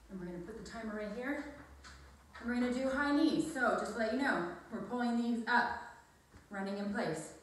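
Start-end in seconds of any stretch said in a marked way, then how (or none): 3.5-7.3 winded, out of breath after the climbers; out of breath, puffing between words. Real, not acted. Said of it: "Sorry, I'm out of breath".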